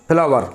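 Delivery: teacher demonstrating the wrong फ्लावर, three syllables, i-sound slipped after the फ; फ्लावर spoken as phi-laa-var, a mistake to avoid; common wrong pronunciation. Shown as a demonstration. Teacher to students, showing the common mistake, wrong pronunciation. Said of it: "क्या बोलते हैं?".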